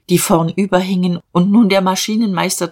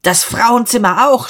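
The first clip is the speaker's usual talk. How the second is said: high-pitched, angry order; indignant narrated shout; shouted demand; 6 semitones higher, 4 dB louder than usual. A narrator's reading. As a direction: call out sharply, voice pushed up. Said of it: "schrie Diederich".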